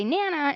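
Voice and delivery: nana with the BA left off; weak syllable dropped. Shown as a demonstration. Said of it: "nana instead of banana".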